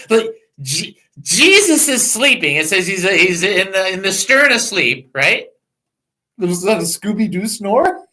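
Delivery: ordinary talk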